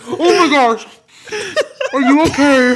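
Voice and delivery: high, loud, laughing fake concern; mock concerned Gavin. Imitating Gavin apologizing after the ping pong hit, high mock concern. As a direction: ham up a worried apology through laughter. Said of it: "Gavin's like".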